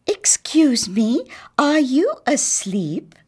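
put-on high, slow, hushed child's question; a lightly voiced child, timid; child asking. Child asking the sleeping house, high and hushed.

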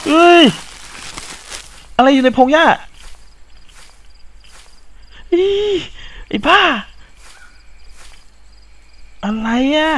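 very high, loud frightened shouts; terrified yelp. Real, not acted. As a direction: shriek at the rustling grass. Jump scare in grass. (กรีดร้องตกใจเสียงสูงมาก)

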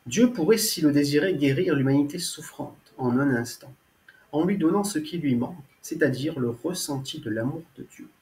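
measured, earnest preface reading; reading aloud. Acted. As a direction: read it out solemnly, pausing between sentences. Reads own preface aloud.

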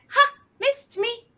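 high, loud singsong taunt; teasing monkey. Acted. Monkey teasing the alligator, high playful taunt. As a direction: taunt like a cheeky little monkey.

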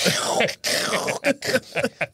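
repeated whispery crackling booms; mock thunder cracks, voiceless; imitated lightning strikes. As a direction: make bursts of lightning noise with the mouth. Imitates lightning repeatedly hitting steeple.

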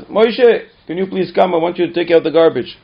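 mother calling. Retold or imitated. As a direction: ask for help with chores. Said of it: "she says".

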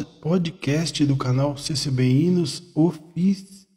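choking on the words; speaking while choking up; engasgando. Real, not acted. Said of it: "nossa, engasguei tudo". (engasgado, voz travando)

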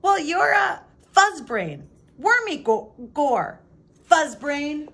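high, loud, slow name-calling; childish furious name-calling; angry insults. A narrator's reading. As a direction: fling the insults back. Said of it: "name-calling quarrel".

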